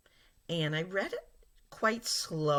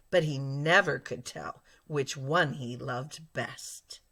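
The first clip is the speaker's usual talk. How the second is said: expressive reading; 3 dB louder than usual. Shown as a demonstration. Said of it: "I'm gonna read it one last time".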